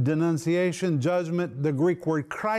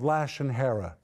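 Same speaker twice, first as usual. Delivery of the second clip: rushed first mention; 2 semitones lower than usual. Shown as a demonstration. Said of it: "Lashon Hara, please listen to this".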